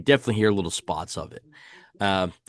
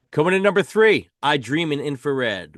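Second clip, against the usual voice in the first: raised announcer call, easing on the title; countdown announcer; 4 semitones higher, 3 dB louder than usual. Real, not acted. Host introducing number three to his co-host, announcer style.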